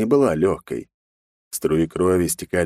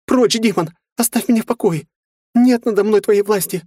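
very high, loud panicked scream; terrified shriek; 5 dB louder than usual. A narrator's reading. Frightened girl screaming the demon away.

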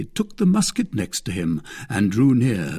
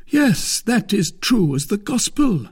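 very high, loud, emphatic musketeer; Porthos's character voice; 11 semitones higher, 5 dB louder than usual. Acted. Porthos backs up Athos's story, high emphatic voice.

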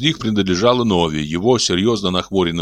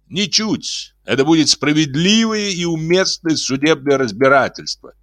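cold stern; 9 semitones higher than usual. A narrator's reading. Simon coldly insists on trial.

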